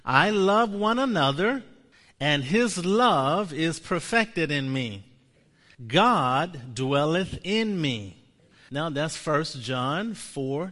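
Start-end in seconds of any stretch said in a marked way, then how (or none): 0.0-8.2 slow confession. Shown as a demonstration. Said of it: "Say this with me".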